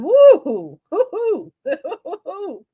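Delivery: high, laughing woo-hoo yelps in imitation; mock growl howl. Streamer mimics the woman's growl on the call, laughing. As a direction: hoot it like a silly growl, cracking up. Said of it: "She growled".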